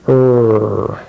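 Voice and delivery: "er" with lips slightly puckered; low held "er" through rounded lips. Shown as a demonstration. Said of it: "pucker your lips a little bit".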